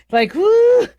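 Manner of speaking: high, loud whoo of relief; relieved whoo. Real, not acted. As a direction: let out a loud relieved whoop. Relief after serving cats.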